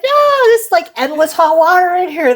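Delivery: high-pitched mock-gleeful protest; retold stubborn delight, voice way up; defiant refusal. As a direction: crow it in a high voice, near laughing. Retold refusal to leave the shower.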